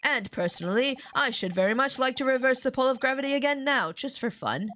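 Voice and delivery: touch of a pompous great detective; musing, self-assured sleuth, lightly put on; lightly voiced detective. Reads the detective's dialogue in character.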